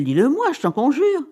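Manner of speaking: high-pitched, urgent begging; pleading. Acted. Wife imploring Cyril to tell her the surprise, pleading. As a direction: beg to be let into the secret.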